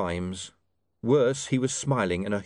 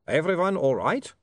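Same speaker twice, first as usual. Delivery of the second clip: slow, high vampire voice; polite vampire checking on others; 7 semitones higher than usual. Acted. Vampire speaks.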